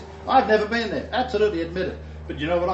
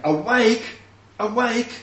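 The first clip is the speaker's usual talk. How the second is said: loud, high wake-up call; ringing divine summons; God calling out; 8 semitones higher, 5 dB louder, slower than usual. Shown as a demonstration. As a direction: shout it like rousing a sleeper. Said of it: "if God is saying".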